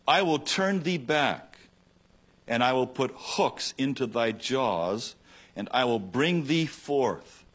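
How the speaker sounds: slow, solemn declaration of God's word; scripture proclamation. Acted. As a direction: proclaim it slowly and gravely. Quoting God's word in Ezekiel.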